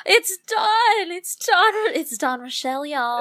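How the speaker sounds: high, excited mock Southern twang; playful Southern accent. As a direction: gush it as a hammed-up Southerner. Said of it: "That's my Southern accent".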